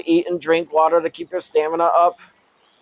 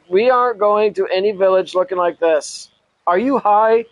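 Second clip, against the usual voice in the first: sharp. Acted. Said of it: "his normal voice sharp".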